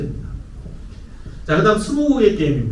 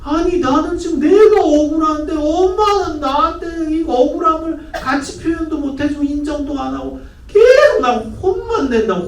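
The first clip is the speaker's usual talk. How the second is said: put-on aggrieved teen; 11 semitones higher, 4 dB louder than usual. Child protesting to mom who only scolds. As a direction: whine that nobody takes your side. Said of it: "얘는 더 열받는 거죠".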